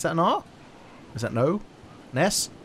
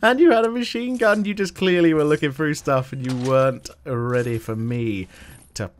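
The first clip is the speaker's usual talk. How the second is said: gloating taunt; 3 semitones higher, 5 dB louder than usual. Real, not acted. Taunting defeated player.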